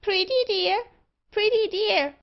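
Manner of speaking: high, loud talking-bird screech; screaming magpie. A narrator's reading. Magpie calls out while barber chatters to it, screaming. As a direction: shriek it like a pet magpie. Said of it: "reiterated the magpie".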